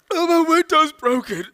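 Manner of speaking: high, loud burst of alarm; hammed-up shocked outcry; startled realization. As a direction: exclaim it as a sudden, shocking discovery. Stoner suddenly notices broken window.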